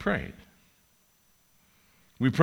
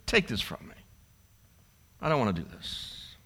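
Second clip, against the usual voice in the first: softly pleading; 4 semitones lower, 8 dB quieter than usual. Acted. Jesus giving in, quiet.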